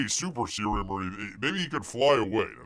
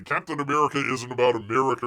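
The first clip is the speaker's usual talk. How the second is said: mock quote; 5 dB louder, faster than usual. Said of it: "Something like".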